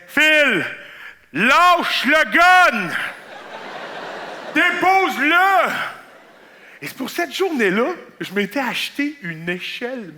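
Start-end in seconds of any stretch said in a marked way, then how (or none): 0.1-5.7 loud call to drop the gun; mock shout. Coworkers shouting at him on the site. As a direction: yell it as a worried coworker. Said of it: "ils me disaient".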